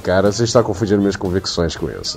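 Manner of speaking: low, soft, fast radio voice; hushed DJ voice, half laughing; late night radio dj. Acted. Reacting to radio voice.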